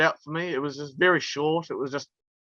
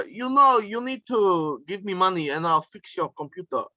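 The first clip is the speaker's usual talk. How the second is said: put-on Russian accent; 3 semitones higher than usual. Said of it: "I used to do this Russian accent".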